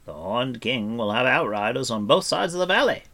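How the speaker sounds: projected, lifted character voice; bard's voice. A narrator's reading. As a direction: warn the party as a story bard. Narrator voices the bard.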